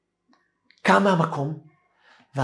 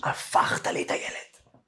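slow, breathy voice choked with tears; tearful; 5 dB quieter, slower than usual. Retold or imitated. Grateful father telling the rabbi, tearful and hushed. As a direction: say it through tears of gratitude. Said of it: "עם דמעות בעיניים".

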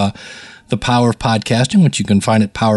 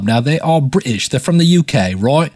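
horrible American stab at a British accent; mock British accent, badly faked; bad English accent. Shown as a demonstration. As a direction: put on a clumsy, hammed-up English accent. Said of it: "that's my horrible American stab at a English accent".

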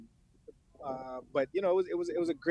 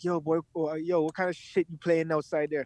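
scolding dad; 4 semitones higher than usual. Retold or imitated. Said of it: "He would be like".

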